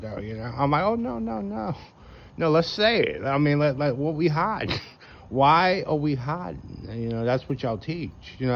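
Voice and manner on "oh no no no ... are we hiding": much higher, playfully insistent, slowing at the end; mock eager. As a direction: egg them on with exaggerated enthusiasm. Mock-eager reply to the pre-tribbers.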